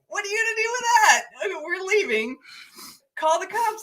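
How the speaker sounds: high, quick challenge thrown back; retold defiance, pitched well up; mock defiant retort. Storyteller retells answering the lady following with the trash, high defiant retort.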